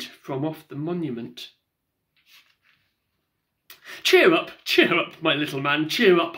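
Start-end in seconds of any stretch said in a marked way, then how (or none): 4.0-6.4 kindly. Acted. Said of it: "I kindly said".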